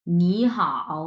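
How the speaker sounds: "নি হাও" with rising "নি", low dipping "হাও"; tone change demo. Shown as a demonstration. Teacher modelling both words together, "নি" rising, "হাও" dipping. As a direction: say "নি হাও" as second tone then third tone. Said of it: "দুইটা একসাথে কিভাবে উচ্চারণ করবো".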